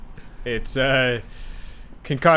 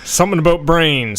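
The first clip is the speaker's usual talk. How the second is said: louder, higher goblin voice; goblin goon voice; 5 semitones higher, 5 dB louder than usual. Pretend. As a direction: play a dim goblin goon. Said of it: "more like a goblin goon".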